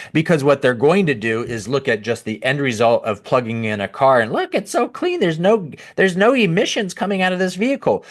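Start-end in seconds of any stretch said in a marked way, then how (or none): 4.3-8.0 high, fast mock-gushing voice, sharply raised; mocking EV fan. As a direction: parody a starry-eyed EV booster, pitched way up. Mocking EV boosters quoted.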